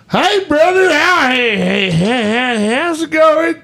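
high, excited hick drawl with stammered heys; hick accent impression. Coworker greeting you in the shop, hammed-up high hick accent. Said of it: "that's exactly how he talked".

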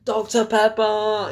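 high-pitched mock call; mock shout. Reviewer imitates people shouting a drink name, mock shout. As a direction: call it out like a name across a battlefield. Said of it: "it's like shouting".

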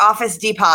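"Depot" said as dee-pot; mock literal "Depot", rhyming with hot; wrong pronunciation. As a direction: sound the final T in "Depot". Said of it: "instead of".

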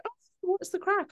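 high-pitched put-on hello; imitating someone's greeting. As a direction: mimic a chirpy greeter, pitched right up. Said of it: "When someone's like".

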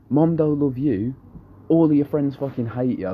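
high-pitched, needling mock taunt; retold taunting. Teen planting doubt while arguing with parents, retold high taunt.

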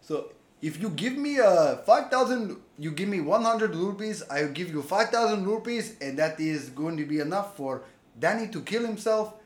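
wobbly mock Irish accent; badly faked Irish accent, drifting elsewhere; Irish prince accent. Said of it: "this is my Irish Prince accent".

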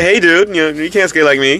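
a light surfer-dude Tony Hawk voice; failed attempt at Tony Hawk's voice; imitating Tony Hawk. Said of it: "I can't do his voice".

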